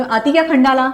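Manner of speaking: a song line with the tone going up; question intonation. Shown as a demonstration. Teacher showing students her question tone, the song line rising. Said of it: "देखो मेरा tone कैसा है".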